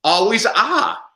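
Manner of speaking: "ah" drawn out, loud and high; Spanish letter A. Shown as a demonstration. Teacher showing parents the Spanish A, drawn-out demonstration. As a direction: demonstrate one open "ah", slow and loud. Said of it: "what sound does it make in Spanish".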